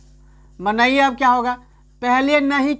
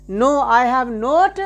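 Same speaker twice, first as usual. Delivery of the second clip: slow dictation; much slower than usual. Shown as a demonstration. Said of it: "slow teacher dictation".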